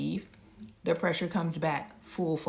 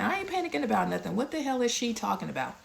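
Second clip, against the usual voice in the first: fast, higher and dismissive; indignant inner thought; 5 semitones higher, faster than usual. Retold or imitated. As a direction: rattle off the denial, brushing the doctor off. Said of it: "In my head, I'm like".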